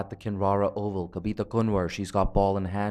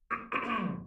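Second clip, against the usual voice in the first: throat clearing; 10 semitones higher, 9 dB quieter than usual. Real, not acted. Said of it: "I am definitely losing my voice".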